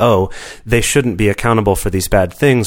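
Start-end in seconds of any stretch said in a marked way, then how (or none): none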